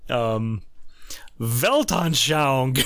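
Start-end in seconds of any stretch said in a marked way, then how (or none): 1.4-2.8 very drawn-out, mock-pompous proclamation; imitated loud voice. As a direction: announce it slowly like an overheard know-it-all. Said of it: "say in a loud voice".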